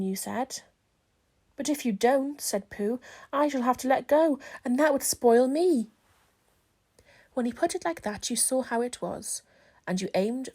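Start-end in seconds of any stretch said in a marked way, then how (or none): 1.6-5.9 Pooh voice. Acted. Pooh tells Christopher Robin the bees are wrong. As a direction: announce it like a bear with a big decision. Pooh's voice, held.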